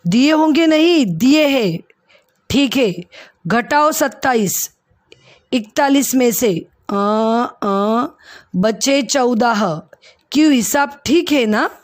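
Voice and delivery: firm, matter-of-fact scolding tone; stern voice. Acted. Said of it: "एकदम कड़े स्वर में". (हल्के कड़े स्वर में मालिक)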